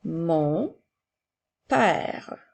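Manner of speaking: each word spaced out and clearly set apart; slow dictation. Shown as a demonstration. Teacher dictating to a child, slow and distinct. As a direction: dictate slowly to a pupil writing. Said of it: "N'oublie pas de mettre l'espace".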